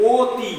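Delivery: অতি with the first vowel said as o, like "oti"; o sound. Shown as a demonstration. Teacher showing students that অতি is said "oti". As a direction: say অতি as "oti", rounded o at the start. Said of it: "এই অটা ও রূপে উচ্চারণ হচ্ছে".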